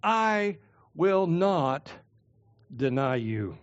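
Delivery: fervent vow, slowing on "I will not"; emphatic vow. Acted. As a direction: swear it with stubborn conviction. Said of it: "Peter basically calls Jesus a liar by emphatically saying".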